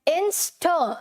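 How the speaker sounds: Inst said in parts, "in... stho"; syllable demo. Shown as a demonstration. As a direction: Inst ending in a rounded, h-coloured "stho". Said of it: "तो क्या बोलना है?".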